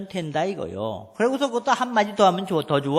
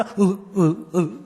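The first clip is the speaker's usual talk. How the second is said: coquettish coo; 2 semitones lower, much slower than usual. Retold or imitated. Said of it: "이래".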